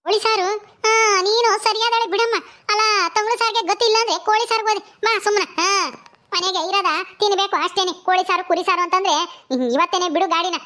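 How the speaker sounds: high-pitched village elder, indignant; scolding Sakamma. Acted. Sakamma scolds over chicken curry demand. (ಗದರಿಸುವ ಸಾಕಮ್ಮನ ದನಿ)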